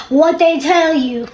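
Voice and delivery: lightly imitated carefree husband; mock nonchalant husband. Husband on the couch as wife returns, mock nonchalant. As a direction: act like nothing is wrong. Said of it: "like nothing is wrong".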